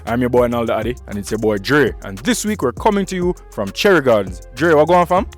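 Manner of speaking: upbeat show host opening; show host intro. Acted. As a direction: hype up the audience to open the show.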